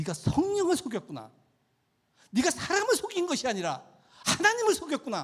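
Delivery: loud, high-pitched, furious scolding tone.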